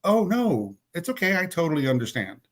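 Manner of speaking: imitating a sweet smile, starting high; smiley reassurance. Woman covering her upset to the speaker, falsely sweet. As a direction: put on a big smile and soothe, easing down. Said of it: "turned to me with that big smile and said".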